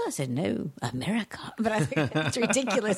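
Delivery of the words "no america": put-on low, mystical America in an affected accent; hushed-down mystical accent. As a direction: say it low, with a mysterious borrowed accent. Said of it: "You made that sound so mystical".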